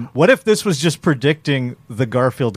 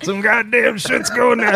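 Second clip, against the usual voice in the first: slow robot voice with a lift; slow, panicky robot line; 8 semitones higher, slower than usual. Pretend. Continuing the robot bit.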